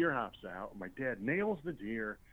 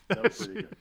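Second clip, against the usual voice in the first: jumps high and louder on the second try; higher and louder; 12 semitones higher, 6 dB louder than usual. Retold or imitated. The dad repeating the praise to his son, higher and louder. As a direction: raise it up, impressed.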